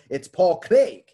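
Craig said loud with a falling end, Scottish style; the technical Scottish Paul Craig, punched; Scottish technical pronunciation. Shown as a demonstration. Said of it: "if you wanna get technical".

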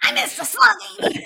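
very high, very loud squeal; over-the-top shouted lament; playful wail. Pretend. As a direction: shriek it in mock longing. Playful outburst over missing a character.

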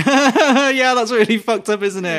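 high, loud, laughing through the words; laughing, uneasy and guilty; nervous laugh. Retold or imitated. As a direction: giggle uneasily at something grim. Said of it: "we were laughing, like, nervously".

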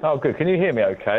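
slightly echoey Bluetooth line. Real, not acted. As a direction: voice ringing round a big room. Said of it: "you sound a bit echoey".

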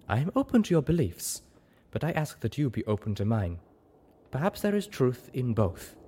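lightly voiced zebra, measured and careful; a hint of a solemn zebra mentor; conceding zebra sage. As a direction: concede the point thoughtfully, in character.

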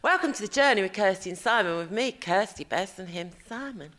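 lightly put-on posh phone voice; a hint of a polite posh telephone voice. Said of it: "It's my posh, like, my telephone voice".

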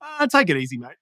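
mock a dismissive Aussie mate, pitched high; laid-back Aussie. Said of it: "in Australia, it's a little bit like".

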